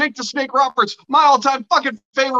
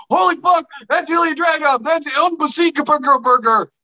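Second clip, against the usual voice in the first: higher, starstruck fanboy gasp; a hint of a starstruck fan, pitched up; excited fan gush; 5 semitones higher than usual. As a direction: gush like meeting your hero. Imagines meeting his favorite wrestler.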